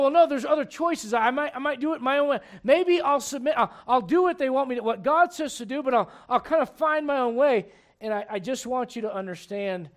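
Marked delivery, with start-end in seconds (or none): 0.0-7.7 higher, louder excuse-making voice; imitating a reluctant listener. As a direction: play the one making excuses. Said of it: "you may go".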